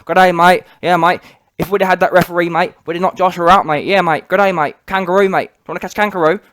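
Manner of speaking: mocking Aussie-style accent; Joseph Parker and his trainer. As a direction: parody their rabbling in a hammed-up Antipodean twang. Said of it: "this dude Parker and his dead-ass trainer have been rabbling on".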